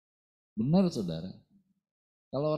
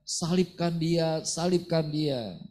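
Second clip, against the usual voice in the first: mob shouting crucify; 5 semitones higher, 4 dB louder, slower than usual. Retold or imitated. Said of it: "kita bersama orang Israel mengatakan".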